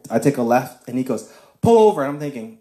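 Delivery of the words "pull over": higher, louder order; sharp command. Retold or imitated. The stranger tells the driver to stop, loud command. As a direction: bark it like a sudden order.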